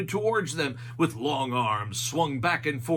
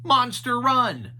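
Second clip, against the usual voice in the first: Shaggy voice; 8 semitones higher, 6 dB louder than usual. A narrator's reading. Shaggy names the sign.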